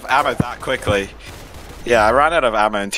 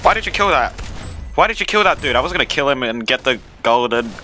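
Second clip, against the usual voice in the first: high, indignant gamer outburst; exasperated yelling; 4 semitones higher than usual. Real, not acted. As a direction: yell at a teammate in disbelief. Teammate kills his target.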